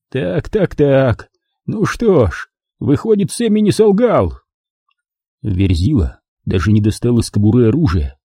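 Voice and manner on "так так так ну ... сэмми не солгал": high, thin and weak; a frightened man squeaking out words. Acted. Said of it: "голос его был слабым и тонким".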